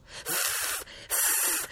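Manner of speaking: short voiceless "fff" puffs; wildcat hiss. A narrator's reading. Wildcat at every leap from branch to branch, hissing. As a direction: hiss twice like an angry cat. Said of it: "fece il gatto selvatico".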